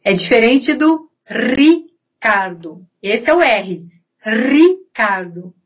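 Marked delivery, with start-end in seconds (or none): 1.2-2.9 "Ricardo" with a long trilled first R; vibrating R. Shown as a demonstration. Teacher contrasts it with throat sound, trilled "Ricardo". 4.2-5.5 "Ricardo" slowly, with a long trilled first R; vibrating R. Shown as a demonstration. Teacher shows what the R is, trilled "Ricardo".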